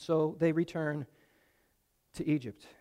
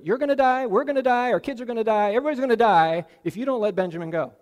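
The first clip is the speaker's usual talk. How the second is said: much higher and louder, pleading alarm; desperate urging; 5 semitones higher, 6 dB louder, faster than usual. Acted. Judah desperately pressing his father Jacob, loud and high. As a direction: hammer home the stakes.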